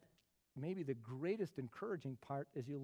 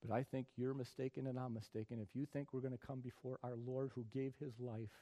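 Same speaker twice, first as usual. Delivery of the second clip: ordinary delivery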